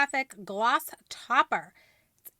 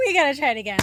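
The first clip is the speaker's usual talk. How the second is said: out of breath; 2 semitones higher, 9 dB louder, much faster than usual. Real, not acted. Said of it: "Let me catch my breath first".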